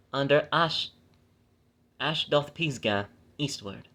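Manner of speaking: measured, phrase-by-phrase Bible reading; scripture reading. Acted. Reading the law's land grants to listeners, measured scripture reading. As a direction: read the verse out deliberately, stressing key names.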